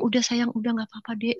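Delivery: soothing reassurance. Retold or imitated. Soothes crying younger siblings.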